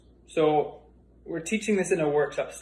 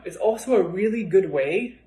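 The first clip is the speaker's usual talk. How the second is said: a little winded while talking; out of breath; 2 semitones higher than usual. Real, not acted. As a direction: speak slightly short of breath. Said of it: "oh, I'm out of breath now".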